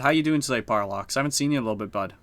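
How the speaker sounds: casual, friendly Canadian greeting; unthinking Canadian lilt; Canadian accent. Real, not acted. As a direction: slip lightly into a Canadian accent. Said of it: "I just accidentally sound so Canadian".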